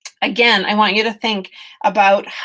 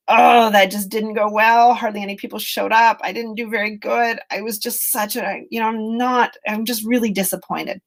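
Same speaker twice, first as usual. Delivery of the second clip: harsh self-talk; 2 semitones higher than usual. Shown as a demonstration. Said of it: "I can be like".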